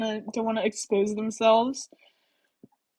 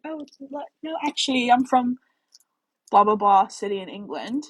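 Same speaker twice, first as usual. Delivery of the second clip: put-on British accent; 2 semitones higher, 4 dB louder than usual. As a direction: put on a British accent for a tipsy lie to strangers. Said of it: "I'll do a British accent".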